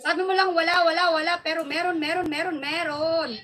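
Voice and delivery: repetitive chant, starting loud then easing; playful insistence. Real, not acted. Streamer teasing viewers who claim no voice, chanting insistently. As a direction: rattle the repeated words off like a chant.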